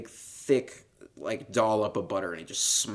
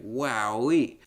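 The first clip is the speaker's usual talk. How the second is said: drawn-out mock wow; imitated kid amazement; 2 semitones higher, 5 dB louder than usual. Host imitating boy seeing the doll advertised, mock awestruck. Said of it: "And he was like".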